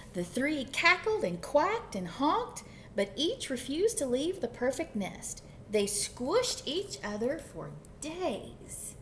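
animated picture-book reading; lively storytime narrator; story narration. A narrator's reading. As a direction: read to children, stretching the ending. Reads picture book aloud.

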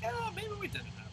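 soft, very high falsetto; mock doubt. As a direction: squeak it out as a timid second thought. Voices own wavering doubt.

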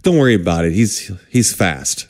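low, softening, slowing to the end; retold reassurance. Nurse to worried patient about the doctor, reassuring.

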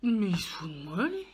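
chewing sticky toffee. Real, not acted. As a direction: mouth full of caramel. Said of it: "ça colle aux dents".

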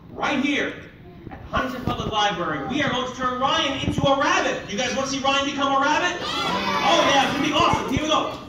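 loud, high announcing; showman hype. Acted. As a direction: sell the big finale.

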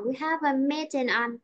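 We have a meeting, voice lifting through meeting; teacher demonstrating the rise before the final fall; rising intonation. Shown as a demonstration. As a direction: lift the start of We have a meeting. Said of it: "mình sẽ lên đúng không".

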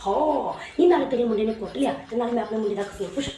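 a brash rural mother picking a fight; scolding village mother. Acted. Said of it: "ਸਾਡੀ ਪੇਂਡੂ ਮਾਂ ਵੀ".

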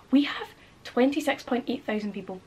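hushed whisper of a number. Real, not acted. Whispering the follower count to her viewers. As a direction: let it out like a secret to the viewers.

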